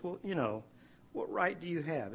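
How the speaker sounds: soft, gentle God. Retold or imitated. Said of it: "in this soft way".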